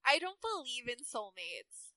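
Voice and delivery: lightly voiced Valley Girl, slow; Lena. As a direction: draw it out like a mild Valley Girl. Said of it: "make Lena a Valley Girl".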